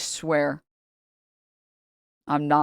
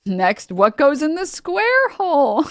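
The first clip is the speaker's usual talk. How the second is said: higher, louder, slow, through laughter; laughing baby talk; 9 semitones higher, 5 dB louder, slower than usual. Pretend. Mocking chud as toddler, laughing. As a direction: quiz a toddler while cracking up. Continuing child-talk joke.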